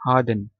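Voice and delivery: British-style "हार्डन", R dropped; silent R. Shown as a demonstration. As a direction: say "हार्डन" with no R before the d. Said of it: "हार्डन में आर silent".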